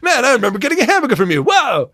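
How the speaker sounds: fast, high excited rush; excited fan. Pretend. Pretend customer recognizing him, fast and high. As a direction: blurt it like a starstruck customer. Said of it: "imagined fan".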